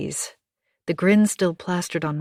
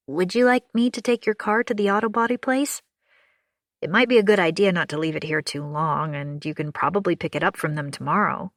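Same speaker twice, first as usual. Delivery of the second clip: kind neighbour, upbeat comfort; reassuring June; faster than usual. Acted. June offers to take the car.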